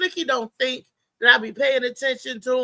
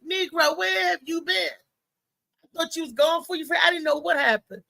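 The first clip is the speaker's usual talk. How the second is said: mad; 4 semitones higher than usual. Retold or imitated. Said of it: "I was so mad".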